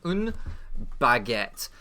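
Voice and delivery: put-on French accent, word by word. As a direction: play at French, pausing between words. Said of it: "That's an excellent French accent".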